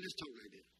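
low, hushed comeback; God's retort. Retold or imitated. God answering crazy talk in kind, low quiet retort. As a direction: drop down low and soft. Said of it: "God said".

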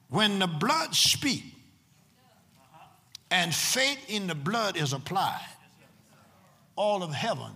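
emphatic preaching with long pauses between phrases. Real, not acted. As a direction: drive each phrase home to the congregation. Preaches the repeated line.

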